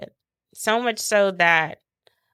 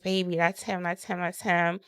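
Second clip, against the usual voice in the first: hushed urgent; 6 dB quieter than usual. Retold or imitated. Urgently tells husband at game.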